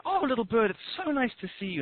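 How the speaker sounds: mildly gushing hello to a pet; fond greeting. Acted. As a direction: coo a little at a small bird. Greeting the bird in the story.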